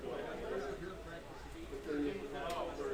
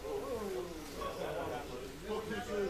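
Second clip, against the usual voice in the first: surprised; 3 semitones higher than usual. Real, not acted. Sudden crash in race.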